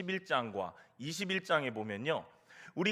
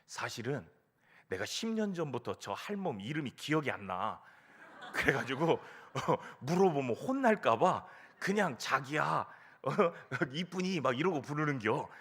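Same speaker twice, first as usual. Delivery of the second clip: lightly voiced old man, lower in pitch; comic old-timer's confession; confiding old man; 3 semitones lower than usual. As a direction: imitate a grandpa admitting a secret. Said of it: "작은 목소리로 이렇게 말씀하시더랍니다".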